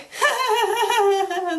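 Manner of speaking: high, drawn-out laugh; high derisive laughter; mocking laugh. Real, not acted. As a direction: laugh at someone's silly mistake. Laughing at the misspelling.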